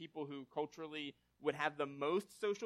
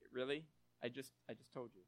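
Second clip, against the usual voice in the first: exasperated wife; 5 semitones lower, 7 dB quieter than usual. Retold or imitated.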